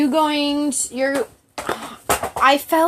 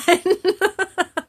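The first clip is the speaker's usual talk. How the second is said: laugh; 8 semitones higher than usual. Real, not acted. Laughing after reacting to picture.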